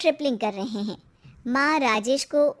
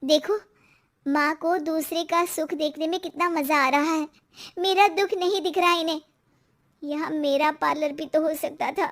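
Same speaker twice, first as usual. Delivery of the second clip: higher-pitched, aggrieved complaint; resentful wife; 5 semitones higher than usual. Acted. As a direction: complain bitterly about your mother-in-law. Wife complains about mother-in-law.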